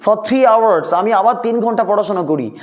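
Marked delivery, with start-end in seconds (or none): 0.0-0.9 slow dictation. Shown as a demonstration. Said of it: "teacher dictating".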